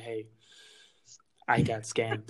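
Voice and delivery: hushed whispered confession. Pretend. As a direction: whisper it, embarrassed. Whisper heard.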